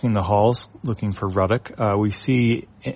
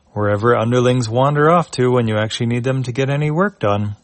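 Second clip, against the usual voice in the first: exasperated captain; 3 semitones higher, 4 dB louder than usual. Acted. Captain grumbling about underlings.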